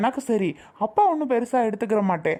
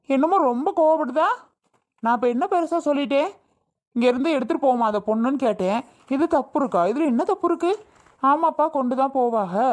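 higher-pitched, aggrieved questions; indignant defence; 4 semitones higher than usual. Acted. Father protesting to his daughter-in-law about the sister's anger, indignant. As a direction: protest his innocence, wounded.

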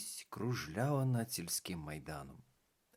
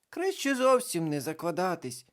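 conciliatory; 8 semitones higher, 6 dB louder than usual. A narrator's reading. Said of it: "примирливо сказала карнавальна баба Яга".

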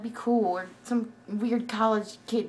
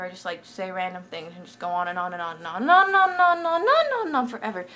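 rising, louder on and on and on; hyper rambling; 2 semitones lower, 4 dB louder than usual. Shown as a demonstration. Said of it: "This is what I do when I'm hyper".

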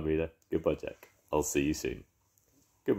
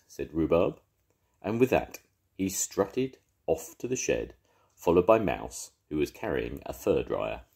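lively read-aloud for little ones; storybook narration; 2 semitones lower than usual. A narrator's reading. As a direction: tell it like a grandad at bedtime. Narration between voices.

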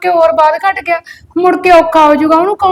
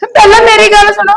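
tearful pleading; 2 semitones higher than usual. Acted. Wife pleads after being beaten.

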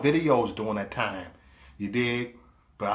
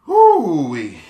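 whoop; 2 semitones higher, 7 dB louder than usual. Real, not acted. Whoops in celebration.

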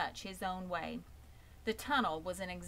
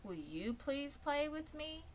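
higher, slow pleading; pleading young pig; 9 semitones higher than usual. Acted. Wilbur the pig begs a lamb to play, slow and pleading.

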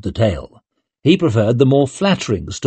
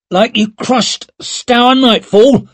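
much higher, slow, drawn-out mockery; teasing taunt; 12 semitones higher, 4 dB louder, slower than usual. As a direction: needle your friend about his old fight. Duran taunts Leo.

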